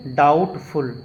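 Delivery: डाउटफुल with no B before T; silent B. Shown as a demonstration. Teacher models the rule, डाउटफुल without the B. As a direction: go straight from vowel to T in डाउटफुल. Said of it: "बी का उच्चारण को नहीं बोलना है".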